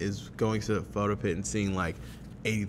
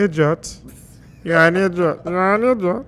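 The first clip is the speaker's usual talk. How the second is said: put-on loud, high Nigerian-accented scolding; mock-angry Nigerian accent; 8 semitones higher, 9 dB louder than usual. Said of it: "His accent is so horrible".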